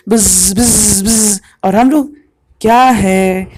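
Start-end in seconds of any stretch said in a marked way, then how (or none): 0.1-1.4 mock fly buzzing bzz; housefly buzz. Shown as a demonstration. Teacher imitating a housefly for students, buzzing. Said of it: "ऐसे करती है".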